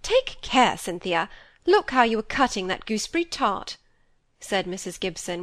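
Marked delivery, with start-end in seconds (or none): 0.0-3.8 sharp annoyance. Acted. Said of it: "with sharp annoyance".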